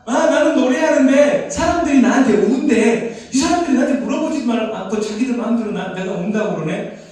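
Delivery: playful bird voice. Pretend. Preacher voicing the bird complaining about people, high and loud. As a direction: speak as the put-out bird, up and loud.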